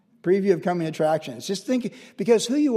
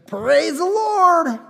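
high, loud, drawn-out holler; exuberant praise shout; 11 semitones higher, 7 dB louder, much slower than usual. Retold or imitated. Elderly resident hailing a visitor, exuberant praise shout. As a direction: imitate a fervent old believer hollering praise.

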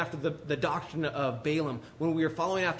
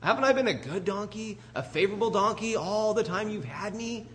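higher-pitched, aggrieved donkey pleading with its master; talking donkey; 5 semitones higher than usual. Retold or imitated. Preacher voicing Balaam's donkey for his congregation, higher hurt plea. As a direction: play the wounded donkey asking why it's being beaten. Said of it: "this donkey turns around and says".

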